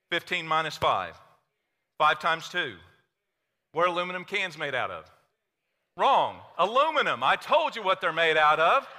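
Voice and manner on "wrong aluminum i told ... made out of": playful scolding, rising in pitch and volume; hammed-up disbelief at a wrong answer; mock exasperation. Preacher teases congregation for answering tin, mock exasperated.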